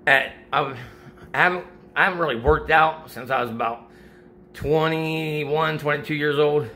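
breathless after a workout; winded, catching breath between words. Real, not acted. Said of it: "Sorry, I'm out of breath".

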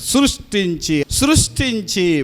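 సృష్టించి repeated slowly, each time weighed; సృష్టించి drawn out, word by word; stress on సృష్టించి. Shown as a demonstration. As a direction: hammer సృష్టించి home twice, unhurried. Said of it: "underline చేసుకో".

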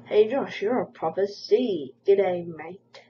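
loud slow read of the comment; loud mocking read. Reading a hate comment aloud.

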